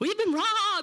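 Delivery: very high, shrill near-scream cry. Retelling what a man screamed over the phone, imitating him screaming. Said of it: "kind of like screaming".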